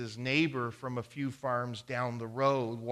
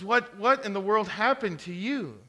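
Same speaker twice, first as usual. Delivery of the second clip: louder, higher astonished cry; shocked question; 8 semitones higher, 6 dB louder than usual. Acted. Farmer shocked at his beaten-up neighbor, loud. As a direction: gasp it out in shock.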